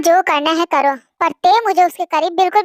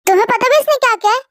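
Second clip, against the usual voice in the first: fast, higher angry demand; father furious about his daughter's kiss; angry outburst; 4 semitones higher, faster than usual. Acted. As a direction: snap it out fast.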